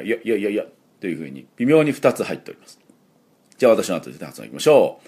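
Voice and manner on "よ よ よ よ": small quick "よ" as a y onset; clipped "よ", practising the y; short Y sound. Shown as a demonstration. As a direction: repeat "よ" short for the English y. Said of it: "Yの場合は".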